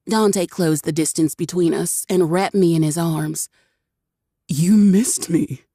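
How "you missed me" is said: slow, pleased tease; smug. A narrator's reading. Dante smugly tells Cherry she missed him, slow and pleased. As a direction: savor it. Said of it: "entirely too pleased with himself".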